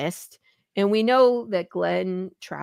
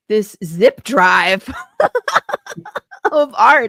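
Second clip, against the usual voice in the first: slow words broken up by laughter; laughing; 6 dB louder, much slower than usual. Real, not acted. Host cracking up while telling the guest's gift, laughing. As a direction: laugh your way through it.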